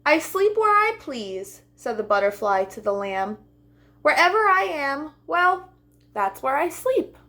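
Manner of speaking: airy butterfly voice. Acted. Butterfly answers, higher.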